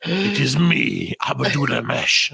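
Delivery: very slow, heavy self-introduction; mock intimidating caller; slow menacing boss. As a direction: drawl it out like a threat. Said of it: "he's like".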